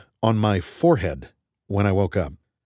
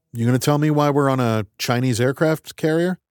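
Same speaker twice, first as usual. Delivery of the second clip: talking through a mouthful of rice; mouth full; 5 semitones higher than usual. Acted. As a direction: say it round a mouthful of food. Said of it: "I said with a mouthful of rice".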